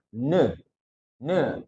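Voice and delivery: NE said as "nuh"; n plus vowel. Shown as a demonstration. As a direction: open the n into a schwa on NE. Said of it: "kita tambahin suara vokal".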